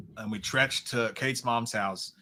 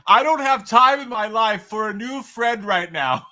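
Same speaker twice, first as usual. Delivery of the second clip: high, loud, drawn-out voice; hammed-up movie character, slow and high; cable guy impression; 9 semitones higher, 6 dB louder, slower than usual. Co-host refusing a new friend, cable guy impression. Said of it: "Do the cable guy thing".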